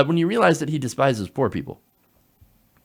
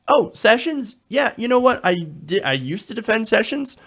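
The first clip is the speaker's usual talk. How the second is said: lightly acted senator, pitched up; higher-pitched imitation of a politician backtracking; mock senator's excuse; 7 semitones higher than usual. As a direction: put on a hint of a waffling politician. Mock quote of wavering senator.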